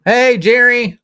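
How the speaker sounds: loud, high shout of greeting; calling out. Real, not acted. Calling out to Jerry.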